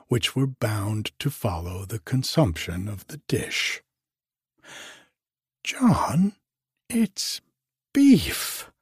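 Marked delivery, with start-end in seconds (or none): 5.6-8.7 much higher, loud shocked scream; old lady screaming to her husband about the beef. A narrator's reading. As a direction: shriek it at your husband. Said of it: "screamed the old lady".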